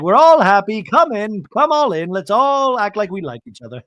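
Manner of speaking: high, loud mock cheer; hammed-up rallying call, pitched high; Bronwyn. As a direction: herd everyone in with exaggerated brightness. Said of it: "And Bronwyn's like".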